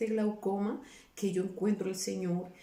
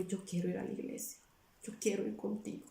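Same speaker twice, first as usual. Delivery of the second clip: soft request; 6 dB quieter than usual. Retold or imitated. Asking friend to take her to church.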